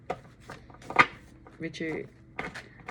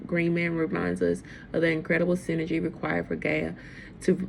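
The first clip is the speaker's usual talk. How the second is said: guidebook reading. Real, not acted. Reads from the oracle guidebook.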